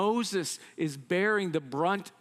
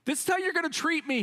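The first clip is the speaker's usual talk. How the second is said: higher and fast, indignant; exasperated outburst; 10 semitones higher, faster than usual. Acted. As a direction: fire it off in frustrated disbelief. Moses' exasperated outburst to God.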